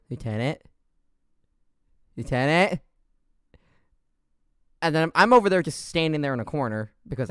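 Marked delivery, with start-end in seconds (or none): 0.1-2.8 questioning call, rising each time; puzzled teammate calling. Retold or imitated. Imitating Panda calling a frozen teammate, puzzled and questioning. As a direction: check in on a teammate, a little more insistent the second time. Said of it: "And Panda's like".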